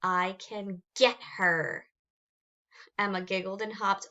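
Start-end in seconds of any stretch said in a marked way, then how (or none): 0.0-1.9 sinister hiss. Acted. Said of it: "he hissed".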